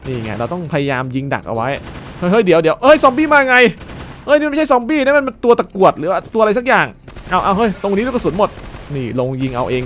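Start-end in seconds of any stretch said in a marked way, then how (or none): 2.2-7.6 loud, high alarmed yelling; real panic as something charges at him; shouting over the game in surprise; startled shout. Real, not acted. Zombies suddenly rush the player.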